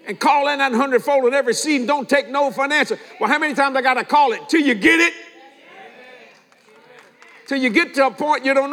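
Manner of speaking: preaching shout. Real, not acted. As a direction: drive it home to the church. Preacher pressing the congregation.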